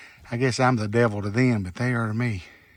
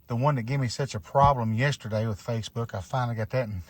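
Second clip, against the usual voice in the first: out of breath, talking between breaths; winded from the uphill walk. Real, not acted. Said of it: "if it sounds like I'm out of breath, I am".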